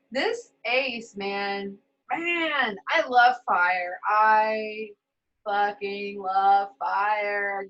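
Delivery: slow, loud gushing love; excited, drawn out. Real, not acted. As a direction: savor each word with delight. Gushing about the Ace of Wands.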